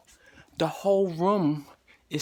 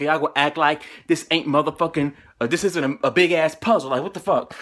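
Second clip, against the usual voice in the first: louder, fed-up cussing rant; angry rant; 4 dB louder, faster than usual. Retold or imitated. Patient to the hospital staff, loud fed-up rant. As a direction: tell them off, done with their game.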